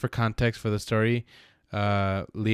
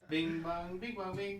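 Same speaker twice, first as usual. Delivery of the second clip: higher, softer Borat sing-song; 10 semitones higher, 9 dB quieter, slower than usual. Pretend. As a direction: chirp it like Borat. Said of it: "Is that Borat?".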